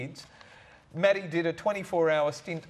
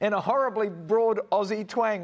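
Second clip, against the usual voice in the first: hammed-up bogan Aussie accent, a bit louder; mock broad Aussie twang; 4 semitones higher, 4 dB louder than usual. Host mocks a letter writer's husband, hammed-up broad Aussie accent. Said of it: "slurring and mumbling his words in a horribly na-, nasal, broad Aussie twang".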